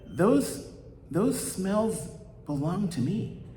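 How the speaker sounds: high, slow, indignant baker voice. Acted. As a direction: lift the voice and draw it out like an offended baker. Baker accuses the poor man.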